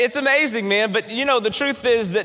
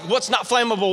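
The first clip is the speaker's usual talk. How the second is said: quick worried question, voice barely raised; panicked plain question. Retold or imitated. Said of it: "I'm freaking out".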